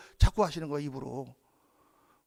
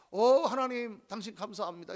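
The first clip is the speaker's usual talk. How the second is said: mock showy prayer; 3 dB quieter than usual. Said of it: "이렇게 기도하고".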